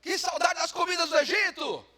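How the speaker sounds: high, loud longing wail; hammed-up complaining lament; whiny crowd. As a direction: moan loudly for Egypt's food. Crowd complaining, acted again.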